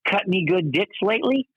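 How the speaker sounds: cheeky puppet voice, laughing; squeaky ventriloquist dummy. Retold or imitated. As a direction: snap it out like a rude dummy. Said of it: "and Chuck goes".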